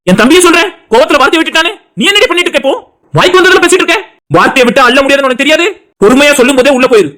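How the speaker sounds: angry scolding. Acted. Husband ordering pregnant wife to her room, angry. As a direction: warn her off with rising temper. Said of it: "ஏன்டா இவ்வளவு கோவப்படுற".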